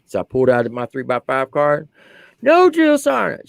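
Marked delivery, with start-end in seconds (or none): 2.4-3.5 high, slow begging whine; whiny private. Retold or imitated. Drill sergeant mocking his private's slow high whine. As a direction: drag it out like a scared kid.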